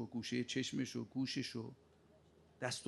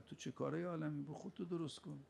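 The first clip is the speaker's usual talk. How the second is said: softer rebuke; 2 semitones higher, 6 dB quieter than usual. Acted. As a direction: let the question drop quietly. Preacher rebukes again, quieter.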